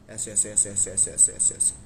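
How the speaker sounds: low, soft panicky breaths; acting out anxious panting. Shown as a demonstration. Vlogger showing viewers his anxiety flutter, low panting. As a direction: show the nervous flutter in the stomach. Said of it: "ball ऐसे धुक धुक धुक धुक करती है".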